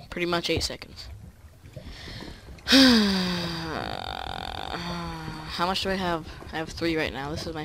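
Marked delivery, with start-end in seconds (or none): 1.1-5.5 big sigh trailing into a long groan; long drawn-out groaning sigh. Real, not acted. Player fed up with slow mining, long groaning sigh. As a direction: let out a long, weary sigh.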